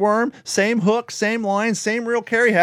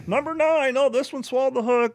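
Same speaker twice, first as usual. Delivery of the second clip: high, whiny mock girlfriend voice, pitched way up; mocking Carrie; 9 semitones higher than usual. Mocking Carrie's catches from the next kayak, high whiny voice. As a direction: mimic her calling for help sweetly.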